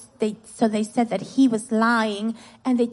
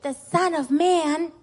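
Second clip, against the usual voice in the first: put-on higher call-and-response line for children; pitched-up teacher's prompt; verse to repeat; 4 semitones higher than usual. Shown as a demonstration. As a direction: lead the kids in repeating it. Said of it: "Okay, repeat after me".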